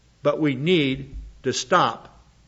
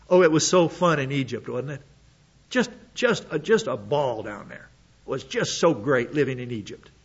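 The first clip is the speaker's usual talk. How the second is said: sarcastic mock nostalgia; 2 semitones lower than usual. Mocking the Israelites' longing.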